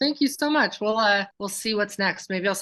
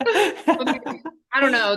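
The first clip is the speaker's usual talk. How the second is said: laughing; 5 semitones higher, 4 dB louder, much slower than usual. Real, not acted. Laughing, unsure about the task.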